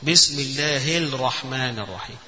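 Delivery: الرحمن read as al-rahman, lam not merged; lam pronounced. Shown as a demonstration. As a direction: read the basmala keeping the lam of الرحمن clear. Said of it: "وقرأها على هذه الصورة". (إظهار اللام في الرحمن خطأ)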